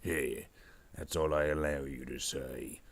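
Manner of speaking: orc voice. Pretend. Orc boss limits what henchman may say, bossy orc voice. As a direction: put the underling in his place. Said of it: "doing this orc voice".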